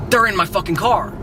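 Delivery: urgent retold cry of alarm; retold freak-out. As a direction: imitate a roommate suddenly losing it. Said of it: "and just kirks".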